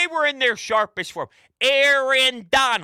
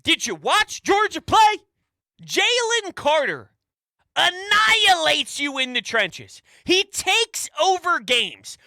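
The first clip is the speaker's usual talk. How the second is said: higher, louder heated pushback; a little bit angry; 7 semitones higher, 3 dB louder than usual. Real, not acted. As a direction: argue hard, half-heated, at the caller. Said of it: "but I am gonna get a little bit angry".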